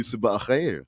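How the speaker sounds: "Sabah al khair" with a throaty kh, falling; Arabic greeting. Shown as a demonstration. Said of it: "they would tell you".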